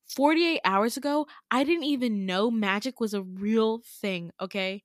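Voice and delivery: mildly heated, emphatic retort; annoyed snap. Retold or imitated. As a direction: act out losing patience with someone. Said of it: "snap because I'm getting annoyed with him".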